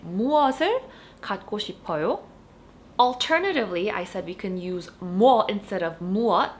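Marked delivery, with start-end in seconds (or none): 0.1-2.2 fast native-speed Korean question. Shown as a demonstration. Teacher repeating the model question quickly. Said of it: "This is how you would ask it".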